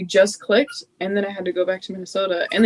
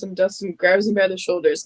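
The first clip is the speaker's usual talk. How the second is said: ordinary talk, nothing marked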